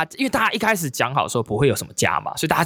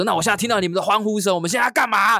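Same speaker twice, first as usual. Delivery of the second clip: raised MC call to the crowd; host firing up the party crowd, pitched up; hype-man host; 7 semitones higher than usual. Retold or imitated.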